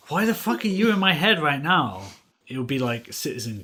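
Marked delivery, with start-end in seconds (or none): 0.1-2.0 loud, high exasperated outburst; exasperated yell. Retold or imitated. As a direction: yell it in disbelief. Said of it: "and then I'm just like".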